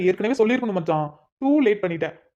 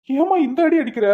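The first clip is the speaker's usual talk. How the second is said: pained complaint; 5 semitones higher than usual. Acted. Complaining after beating.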